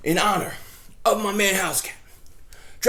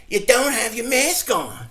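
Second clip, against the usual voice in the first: louder, slow, scolding mimic; mocking HOA lady; 4 semitones higher, 6 dB louder than usual. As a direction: nag him like a prim neighbor. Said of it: "And she's like".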